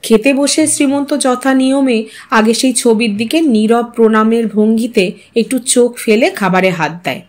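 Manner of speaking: ordinary delivery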